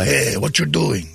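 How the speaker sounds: slow put-on "what you" said as "what Jew"; mock accent. Shown as a demonstration. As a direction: drag out a hammed-up fake accent. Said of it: "say the word Jew instead of you".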